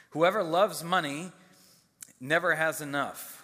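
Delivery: measured, solemn Bible reading aloud; formal reading to a congregation, falling at verse ends; scripture reading. Acted. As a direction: read the verses out deliberately, pausing between phrases.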